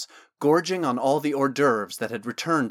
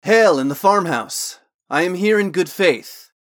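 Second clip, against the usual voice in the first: loud, raised call to the house; 5 semitones higher, 9 dB louder than usual. Acted. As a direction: call out from a distance, arms raised. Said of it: "as he called out".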